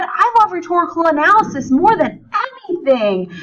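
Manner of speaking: a touch of eager enthusiasm; mildly excited. Shown as a demonstration. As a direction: lightly show the excitement of an exclamation. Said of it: "I'm very excited about it".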